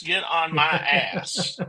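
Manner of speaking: slow, laughing repeat. Pretend. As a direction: say it again slowly through a laugh. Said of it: "get on to you after the show".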